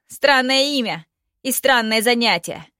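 hoarse, loud rasp. Acted. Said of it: "прохрипел Ардан".

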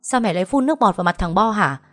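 fast, sharper angry question to mother; irritated outburst. Acted. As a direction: snap it at his mother, fast. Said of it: "liền cáu". (cáu gắt, nói nhanh)

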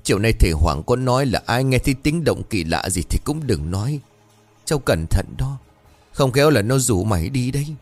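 put-on old aunt tearfully warning her niece; tearful pleading. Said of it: "mặt mũi tái nhợt lắc đầu rồi mếu máo".

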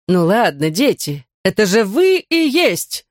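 slow, high exasperated cry; angry outburst. Acted. Teacher angrily telling the children the answer. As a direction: spell it out crossly to the kids. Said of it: "сердито выкрикнула она".

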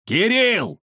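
громко окликнуть из глубины квартиры; позвать внука на всю квартиру; громкий зов. Acted. Зовут Кирилла из квартиры. (дед громко зовёт внука из глубины квартиры)

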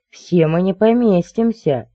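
high, drawn-out hysterical protest. A narrator's reading. Crow to men crowding into the closet, hysterical. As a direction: protest in a high, slow panic. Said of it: "истерикует ворона".

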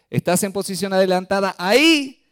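referee call. Retold or imitated.

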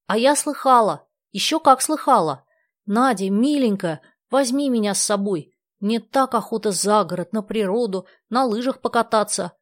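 eager, high, loud begging; pleading. A narrator's reading. Dasha begs Nadya to take her along, eager and high. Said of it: "взмолилась Даша".

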